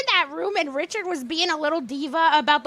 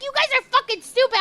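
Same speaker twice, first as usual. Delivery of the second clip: cranky; 5 semitones higher, much faster than usual. Retold or imitated. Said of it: "He gets so cranky".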